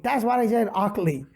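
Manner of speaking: put-on Santa insists on Augie in a Samoan accent. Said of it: "because of the accent".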